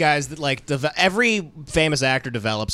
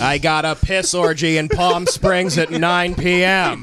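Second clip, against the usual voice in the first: cowboy drawl; 4 semitones higher, slower than usual. Retold or imitated. John Wayne riff continues.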